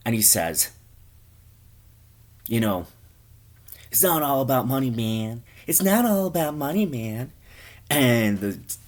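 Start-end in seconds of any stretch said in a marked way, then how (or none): 2.5-7.3 high, whiny hipster protest, building higher; interrupting hipster. Acted.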